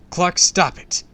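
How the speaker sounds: high, loud desperate shout; horrified outcry; screamed command. A narrator's reading. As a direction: yell to make him stop. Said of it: "I screamed".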